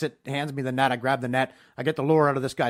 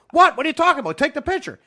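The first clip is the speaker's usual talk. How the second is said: high, loud clueless protest; 13 semitones higher, 8 dB louder than usual. Retold or imitated. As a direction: play dumb, oblivious and loud. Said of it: "I'm like".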